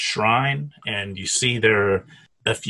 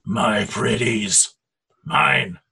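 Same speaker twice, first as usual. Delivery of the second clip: creepy creature voice; much slower than usual. Acted. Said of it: "you hear this voice say".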